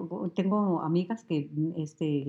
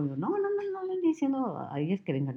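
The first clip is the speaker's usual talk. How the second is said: retold firm warning; 8 semitones higher than usual. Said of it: "yo le digo".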